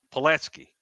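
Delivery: Pulaski in a thick Chicago accent. Shown as a demonstration. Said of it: "when you have that Chicago accent".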